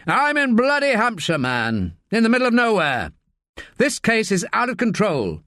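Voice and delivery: a boss fuming down the phone; lightly voiced exasperated superior; harassed senior officer. A narrator's reading. Narrator voices Pennington.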